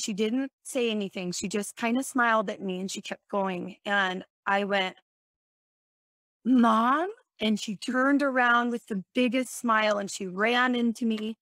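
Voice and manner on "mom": louder call, hopeful and unsure. Retold or imitated. In the dream, calling to her mom walking past. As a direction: call her back across the street.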